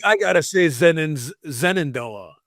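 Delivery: SHENANDOAH said ZENANDOAH, with a Z; imitated Z pronunciation. Co-host teasing his friend's fussiness, Shenandoah with a Z. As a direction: swap the Sh for a Z in Zenandoah. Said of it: "you're like".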